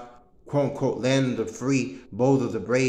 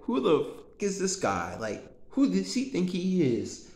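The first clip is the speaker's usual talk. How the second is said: higher-pitched, imitating indignant onlookers; mock disbelief; 4 semitones higher than usual. Imitating people who look at him oddly, mock disbelief. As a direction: play the offended crowd sizing up a newcomer. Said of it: "they look at me like".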